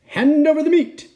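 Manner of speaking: high, loud captain's order; pirate demand. A narrator's reading. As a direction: demand it across the table.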